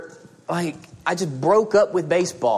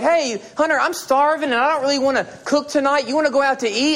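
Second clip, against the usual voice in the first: wife's voice; 6 semitones higher than usual. Retold or imitated. Wife voiced asking to eat out.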